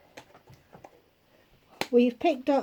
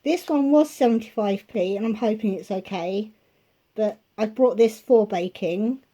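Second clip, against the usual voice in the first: slightly winded, breathing hard. Real, not acted. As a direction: talk while short of breath. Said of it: "I'm out of breath already now".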